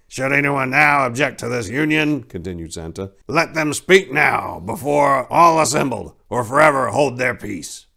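a lightly voiced Santa, formal and booming; officiating Santa.

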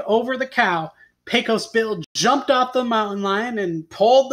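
animated tall-tale reading with punched words; expressive storyteller; story narration. A narrator's reading. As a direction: read it to children, leaning on key words. Reads a tall tale aloud.

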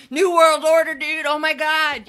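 high, loud, in-your-face outburst; loud mock rant. Loud-mouthed older generation ranting at strangers, mock shouting. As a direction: shout it like an over-the-top public rant.

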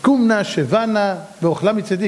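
lightly voiced, measured polite request; polite Jacob. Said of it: "איך יעקב מדבר". (יעקב המנומס, בנימה קלה)

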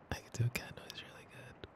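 quick unvoiced whisper of a boast; fast whisper. Girlfriend bragging to her partner about cat noises, fast whisper. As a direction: rush it out as a secret brag.

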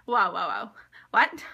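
loud stunned whoa, whispered whoas; excited disbelief. Retold or imitated. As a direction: gasp it out in disbelief. Retold reaction to news.

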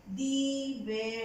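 "divertido" broken into di, ver, tido; spell-along "divertido" with gaps between syllables; syllable-by-syllable dictation. Shown as a demonstration. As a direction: dictate "divertido" in separate chunks for writing. Dictating the word while writing.

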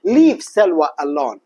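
slow, leaning on the swapped name; slow drill. Shown as a demonstration. Teacher showing where the name changes, slow. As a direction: draw out each word for the class. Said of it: "هنا التغيير".

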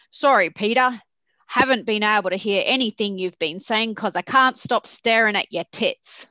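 lightly put-on Aussie accent for the managing director. Managing director interrupting her board presentation, in a light Aussie accent. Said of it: "I'm gonna try my best Oka Aussie accent".

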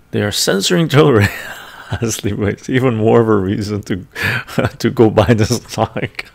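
loud, laughing mock outrage; amused outburst. Real, not acted. Streamer joking to viewers that the stock is censored, laughing. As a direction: break into laughs between phrases. Amused by missing search results.

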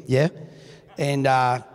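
a light put-on Australian lilt, ending on a rising "yeah?"; Australian accent. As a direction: tease the crowd as a fake Aussie. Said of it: "I'm not".

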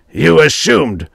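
high, loud, drawn-out disbelief; outraged echo. A narrator's reading. Stark pouncing on Grayson's excuse, outraged. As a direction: throw the word back slowly in outrage.

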